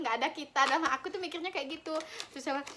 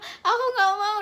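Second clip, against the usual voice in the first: higher, louder refusal through laughter; laughing mock refusal; 6 semitones higher, 7 dB louder, slower than usual. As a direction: refuse like a stubborn kid while giggling.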